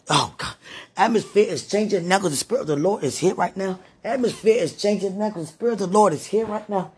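speaking in tongues, then chanting praise; fervent prayer. Real, not acted. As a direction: pray it out as the Spirit moves.

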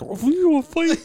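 high, loud taunting challenge; mock tough kid. Aunt imitating an angry boy taunting the door. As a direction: play an angry boy picking a fight. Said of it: "Like, stare at the door".

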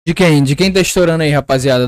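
loud voice peaking the mic; mic overdriven and crackling; clipping distorted mic. Real, not acted. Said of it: "estourou você dando uma empolgada".

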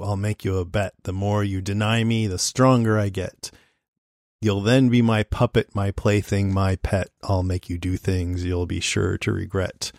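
lightly spooky storybook reading; hushed creepy legend telling. Pretend. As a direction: read it like a creepy children's rhyme. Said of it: "I'm gonna read from a little book".

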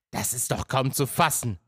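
mildly worked-up disbelief; a touch of indignation; somewhat agitated. Acted. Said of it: "bemerkt Detlef etwas ausgebracht". (leicht aufgebracht)

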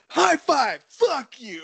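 high, loud hammed-up cheer, then a yell; high and loud, cheerful then insulting; mock cheer then insult. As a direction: swing from fake-friendly to rude. Retelling White Mike's gag again.

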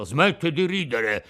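annoyed rebuke to the laughing mouth; piqued. Acted. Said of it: "disse Geppetto impermalito". ("Smetti di ridere" detto stizzito ma contenuto)

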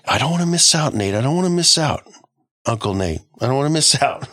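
high whining plea; mock whine, Uncle Nate doesn't want her missing out; whiny young woman.

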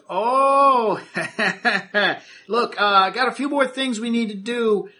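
foreman's voice. Acted. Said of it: "he goes".

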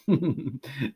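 soft wordless mumbled prayer; quiet, indistinct muttering noise; mumbling to herself. A narrator's reading. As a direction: mumble under your breath. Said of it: "She's mumbling to herself".

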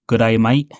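a deliberately bad Australian accent, slowed. Podcaster greets absent co-hosts in a bad Australian accent. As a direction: ham up a clumsy Australian accent, playing the Aussie manager. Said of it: "that was a really bad Australian accent".

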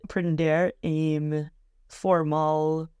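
Portuguese with an English accent; American-accented learner Portuguese. Real, not acted. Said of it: "Desculpa meu português já é muito mal".

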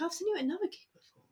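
fast, high "I've seen you at another gig before"; bubbly, rushing the line out; excited recognition. Retold or imitated. She greets a familiar fan at a gig, excited and quick. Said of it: "I'm like".

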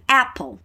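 "Apple" said as EH-pol, stress on the first syllable; clear model word. Shown as a demonstration. Teacher showing students how to say Apple. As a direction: model "Apple" with an open EH sound. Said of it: "como pronunciar".

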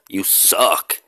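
breathy whispered jab, you and suck hushed; teasing whisper. Pretend. Teasing viewers who saw it once, in a whisper. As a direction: hiss the tease under your breath.

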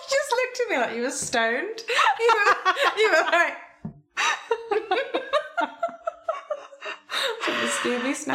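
laughing through the words; high-pitched giggly teasing. Real, not acted.

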